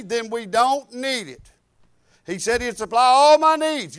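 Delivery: driving, sustained preacher's delivery; preaching. Real, not acted. Preacher urging the church to trust God for needs, preaching. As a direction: preach it with insistent force.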